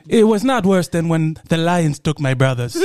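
matter-of-fact, put-on African accent. Villager recalling the lions, African accent. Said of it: "doing that accent".

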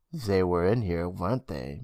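low, sober man's voice; low-pitched, serious. A narrator's reading. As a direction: ask it gravely and quietly. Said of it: "Mister Braun said soberly".

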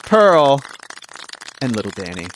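big announcer intro voice; booming kids show opener. Acted. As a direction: boom it out like a game show host. Podcast host announcer intro.

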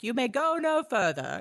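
a hammed-up hero's warning; heroic warning. Aragorn warning the pirate ships off, mock stern.

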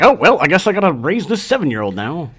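grumbling reluctant stepdad voice; grudging stepdad. Retold or imitated. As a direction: act put-upon and reluctant. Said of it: "It was like".

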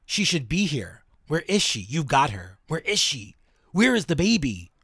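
put-on a ghost desperately asking for his wife and child; entity frantically asking for Mignon and the baby; agitated spirit. Possessed entity demanding his wife.

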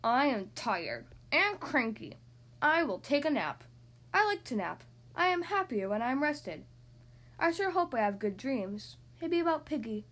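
थका चिड़चिड़ा हाथी, धीमी नीची आवाज़; tired cranky elephant. Acted. Gerald voice in read story.

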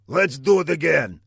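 high, sulky villain voice; high petulant villain grumble; sulking villain. Acted. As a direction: pout about the ruined entrance. Villain voice continued.

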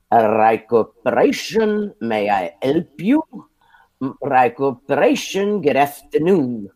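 put-on slow, lightly done Brooklyn and Southern Italian accent; Brooklyn-Italian receptionist. Receptionist greeting callers in a Brooklyn-Southern Italian accent. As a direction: answer the phone like the receptionist, with her Brooklyn-Italian lilt. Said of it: "and Southern Italian accent".

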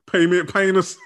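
words broken by laughter; laughing. Real, not acted.

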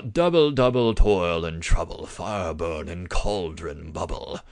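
theatrical British Shakespearean recital, slowing and dropping low at the end; haughty British accent. Shown as a demonstration. Lecturer parodies how people think Shakespeare sounded, haughty British accent. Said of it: "with a British haughty accent".

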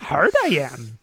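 lightly put-on creature voice; hint at a little alien sage; mock sage croak, played for laughs; Yoda. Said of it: "I don't know why he's Yoda".

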